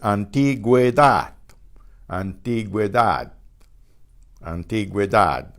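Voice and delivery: Antigüedad with the U spoken as gw; sounded Spanish ü. Shown as a demonstration. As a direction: say Antigüedad, gwe clearly voiced. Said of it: "we know we'll say it".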